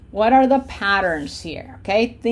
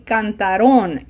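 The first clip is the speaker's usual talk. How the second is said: "cantaron" with the weight on the final RON; misplaced stress. Shown as a demonstration. Teacher showing learners a common mistake, stress shifted to the end of "cantaron". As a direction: say cantaRON, stressing the last syllable. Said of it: "that is not correct".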